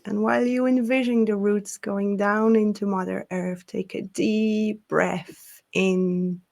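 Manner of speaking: unhurried grounding voice with long pauses; guided meditation. Acted. Leads a grounding breathing exercise.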